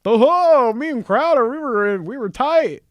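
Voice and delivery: high, loud mocking girly voice; exaggerated high imitation of Candace. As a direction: ham up her boast, high and loud. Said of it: "She's making a lot of assumptions here, like".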